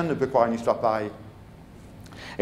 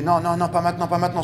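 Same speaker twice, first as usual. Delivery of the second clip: urgent self-warning; 4 semitones higher than usual. Retold or imitated. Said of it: "La boule d'émotion montait".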